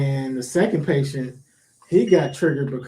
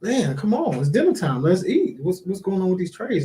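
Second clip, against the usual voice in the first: a bit louder, raised-pitch complaint; hungry patient complaining about dinner, lightly raised; impatient patient; 5 semitones higher, 4 dB louder than usual. Retold or imitated. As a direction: whine like you're hungry and fed up. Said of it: "And he was like".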